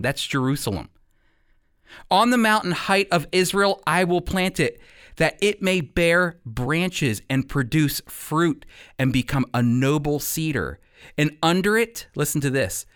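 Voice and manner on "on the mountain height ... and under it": measured pulpit reading of Ezekiel; scripture reading. Acted. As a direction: read the prophet's words with weight. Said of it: "which sounds like this. Listen to this".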